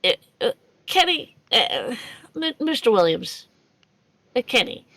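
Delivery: halting, hesitant address with stammered pauses. Acted. Stammering in character to Williams.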